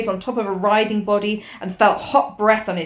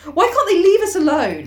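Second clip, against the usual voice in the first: bitter; 8 semitones higher, 4 dB louder than usual. A narrator's reading. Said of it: "said Ralph bitterly".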